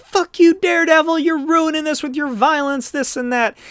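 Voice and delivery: very high heckling crowd voice; hammed-up, high-pitched protest; mock angry screaming. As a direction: scream it like an outraged bystander. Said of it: "everybody's screaming at him".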